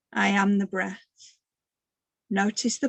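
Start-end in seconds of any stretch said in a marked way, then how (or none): 0.1-1.4 measured meditative mantra; mantra demo. Shown as a demonstration. Teacher shows the group the in-breath line, meditative mantra. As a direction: say it evenly with the in-breath. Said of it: "exercise goes like this".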